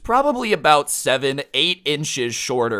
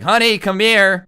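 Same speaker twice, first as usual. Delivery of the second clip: high, loud call to a wife; imitated husband hollering for his wife; 8 semitones higher, 7 dB louder than usual. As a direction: call out loudly for your wife. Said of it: "starts asking for his wife loudly".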